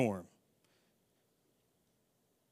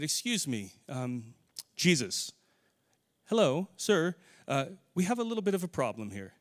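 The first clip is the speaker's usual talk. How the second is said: overly polite mock request. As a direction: play the absurdly polite disciples, unbothered. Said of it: "do you think that that's what this story portrays".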